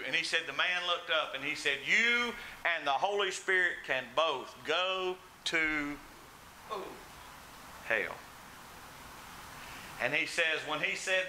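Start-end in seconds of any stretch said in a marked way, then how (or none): 1.9-8.2 slow defiance. Retold or imitated. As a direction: imitate a deliberate insult with a long pause before the last word. Retold drunk man defying the preacher.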